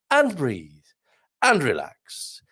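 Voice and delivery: slow, drawn-out falling words; exaggerated breathe-out delivery; relaxation coach. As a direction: let each word sigh downward. Signing off with relaxation cue.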